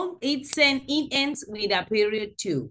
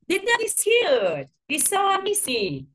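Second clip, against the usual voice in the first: excited exclamation; 10 semitones higher, 3 dB louder than usual. Shown as a demonstration. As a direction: say it like you adore the dog. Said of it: "they show strong feelings".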